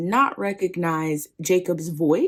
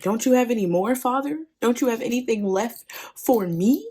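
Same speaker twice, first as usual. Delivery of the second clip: higher-pitched, rising plea; mildly hammed-up begging; 5 semitones higher than usual. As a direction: plead with your father for scraps. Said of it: "he basically begs Isaac".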